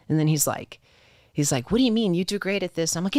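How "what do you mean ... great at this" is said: surprised boss. Retold or imitated. Boss surprised at her request.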